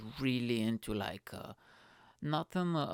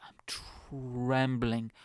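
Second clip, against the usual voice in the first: tag; much slower than usual. Retold or imitated. Acting out trembling from fear.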